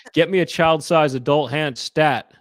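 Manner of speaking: urgent order. Retold or imitated. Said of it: "He goes".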